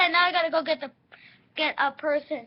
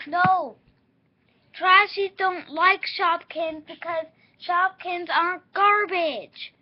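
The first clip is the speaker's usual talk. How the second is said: insistent lecture; 7 dB louder, slower than usual. Real, not acted. Lecturing toy-play rules loudly.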